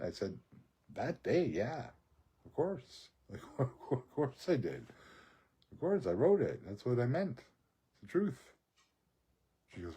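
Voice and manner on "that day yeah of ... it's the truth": high-pitched self-justification; mock earnest insistence. Answering her whether he meant the poem, high mock insistence. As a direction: protest in a raised, innocent pitch. Acting his answer when challenged.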